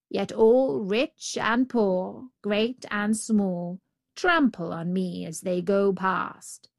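lightly voiced road, slowing on the complaint; aggrieved road. Road telling the Brahmin of its lot, aggrieved.

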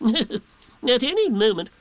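high, slow, ponderous owl; Owl, pompous. A narrator's reading. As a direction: draw it out as a learned owl. Owl continues pompous forecast.

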